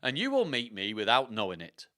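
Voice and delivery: slow, theatrical put-on accent; Richard the third. Richard's spirit telling how he lost his crown, slow accented storytelling. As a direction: narrate as the dead king, deliberately and dramatically. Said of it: "that's gonna be his voice".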